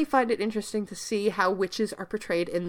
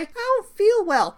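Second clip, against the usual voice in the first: whiny sick voice; 13 semitones higher than usual. Retold or imitated. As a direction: pitch "I don't feel well" up like a fake excuse. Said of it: "you can't just say".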